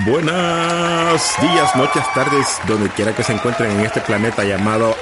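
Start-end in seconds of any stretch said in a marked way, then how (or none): 0.1-2.5 shouted greeting. Acted. Cipitillo greets the audience.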